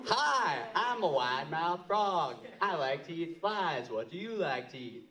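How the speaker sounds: a cheery frog bouncing up to say hi; wide-mouthed frog. Acted. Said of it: "says to Grandmaster Chop's mother".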